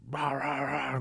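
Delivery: rough "rah, rah, rah" like a barking dog; mock snarling barks in a quick string; imitated dog barking.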